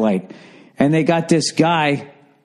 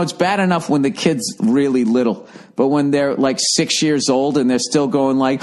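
ordinary talk, nothing marked

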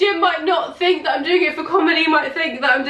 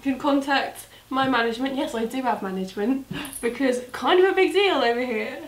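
put-on Brummie accent. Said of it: "That's the Brummie accent".

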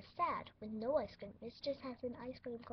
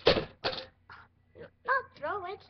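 slow, loud, higher bossy command; bossy doctor order; 6 semitones higher, 10 dB louder, much slower than usual. Pretend. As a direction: order the nurse about grandly. Doctor scolding nurse.

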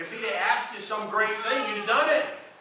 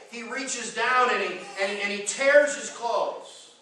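slow dramatic telling; 4 semitones higher, 4 dB louder, slower than usual. Acted. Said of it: "preacher dramatizes".

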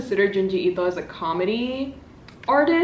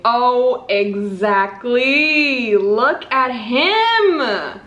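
drawn-out gushing; 3 semitones higher, 4 dB louder, much slower than usual. Real, not acted. Gushing over cover art.

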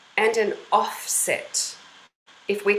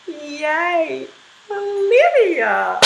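smooth onset; 5 semitones higher, much slower than usual. Shown as a demonstration. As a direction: glide gently into the voice. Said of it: "with a smooth reply".

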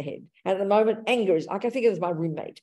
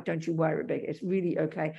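softer, gentle comforting of Rebecca; reassuring inner voice; 4 semitones lower, 5 dB quieter than usual. Acted. Teacher as the calm roommate comforting Rebecca, softly. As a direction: soothe her like a kind friend.

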